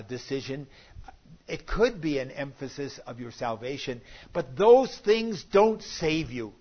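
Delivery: ordinary talk, nothing marked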